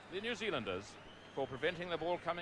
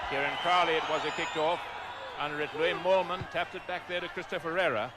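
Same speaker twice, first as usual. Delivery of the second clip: excited call; 4 semitones higher, 8 dB louder than usual. Real, not acted. Kickoff, live call.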